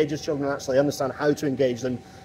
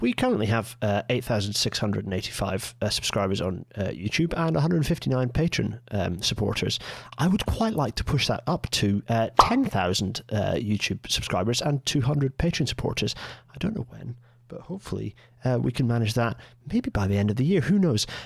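hushed, soft late-night radio voice, not carrying; 4 semitones lower than usual. Speaker addressing the chat late at night, in a quiet radio voice. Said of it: "I'm talking very radio voice because it's quite late at night and I don't want my voice to carry".

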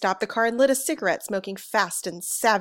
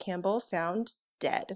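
ordinary delivery, nothing marked

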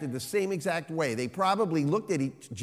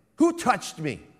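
firm, insistent, commanding, demanding, pitched up; 6 semitones higher, 4 dB louder than usual. Imagining one possible way the question was asked to the crowd: firm and demanding. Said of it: "Was it firm and demanding".

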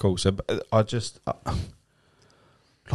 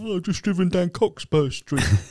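high, put-on smug show-off voice. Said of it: "some knob that goes".

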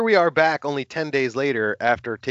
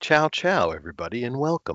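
put-on relaxed, easygoing, laid-back delivery; 3 dB quieter than usual. A listener imitating how the host used to open the podcast, imitating a laid-back greeting. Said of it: "You used to say".

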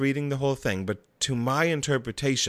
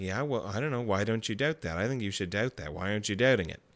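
put-on doubting voice, lower and quieter; 4 semitones lower, 5 dB quieter than usual. Acting out a thinker's skeptical inner voice: skeptical inner voice. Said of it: "the skeptical voice will be like".

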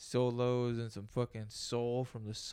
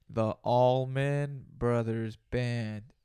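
slow, raised, deliberate, drawn-out careful pronunciation; 8 dB louder than usual. Host giving listeners a band name slowly so they can type it in. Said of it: "I'm going to say it slowly".

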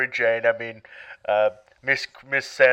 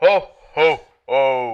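jolly, ho-ho-ing voice; 4 dB louder than usual. Santa leaves a voicemail message: jolly Santa voice. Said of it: "Thank you so much, Santa".

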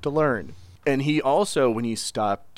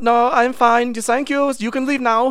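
bad, very high, loud put-on German accent; 13 semitones higher, 7 dB louder than usual. Acting a scene, replying to another character in a bad German accent. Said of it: "I think my German accent".

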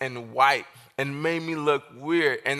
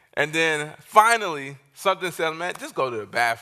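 ordinary delivery

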